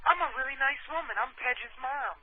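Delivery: high, soft put-on woman's voice; breathy high lady impression; friend's mom voice. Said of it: "you sound a little like Pedge's mom".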